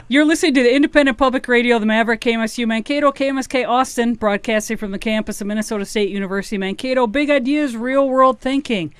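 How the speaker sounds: quick station ID read; radio announcer. Acted. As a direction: read the call letters like an announcer. Station top of hour ID.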